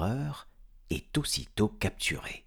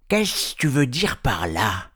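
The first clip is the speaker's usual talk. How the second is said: somewhat higher troll voice; suspicious troll; 4 semitones higher, 4 dB louder than usual. Acted. Hubert challenging Bilbo's answer, suspicious demand.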